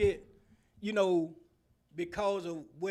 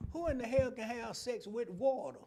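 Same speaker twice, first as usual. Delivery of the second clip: incredulous; 3 dB louder than usual. Retold or imitated. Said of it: "I'm sitting there like".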